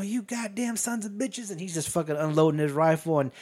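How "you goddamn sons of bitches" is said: slow, high-pitched cursing, kept soft; drawn-out retold outburst; mock breaking point. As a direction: act out snapping without full volume. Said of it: "he hits his breaking point".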